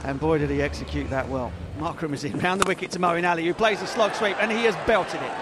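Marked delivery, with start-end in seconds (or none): 1.8-5.3 commentary rising to a six; cricket commentator. Acted. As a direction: call the big hit live.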